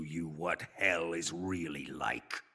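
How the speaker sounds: slow, low whispered relish; the torturer slowly whispers to the prisoner that it begins; slow menacing whisper. Acted. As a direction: savor each word as a threat.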